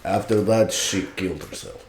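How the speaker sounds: deadpan, dropping softly away; emotionless Russian. Acted. Man imitating Russians telling grim news, deadpan. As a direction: state it with no feeling, trailing down. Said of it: "Russians don't feel about anything".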